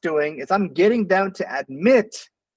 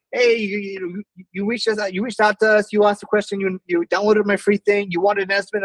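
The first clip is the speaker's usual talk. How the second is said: higher, rushed pushy sales patter; blabbering telemarketer; 5 semitones higher than usual. Shown as a demonstration. Pushy telemarketer rambling at a cold lead, hurried. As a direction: rattle it off without a breath. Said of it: "instead of me just blabbering".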